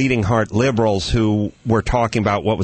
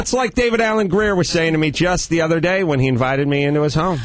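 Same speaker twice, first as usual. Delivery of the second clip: mock shouted boast; 3 semitones higher, faster than usual. Name-dropping his one black friend.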